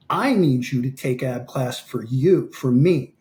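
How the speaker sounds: slow, emphatic retold pep talk; impassioned coaching. Coach telling fighter others look up to him, earnestly emphatic. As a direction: weigh each demand, stretching the key words.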